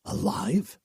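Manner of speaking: thinking aloud. Acted. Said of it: "he thought".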